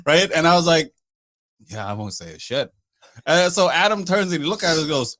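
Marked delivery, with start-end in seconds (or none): 1.7-2.7 cowed agreement. Retold or imitated. Retold giving in to a threat.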